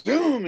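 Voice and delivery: drawn-out zoom, pitch swooping up; imitated car zoom. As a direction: make the car whoosh off. Imitating car driving away.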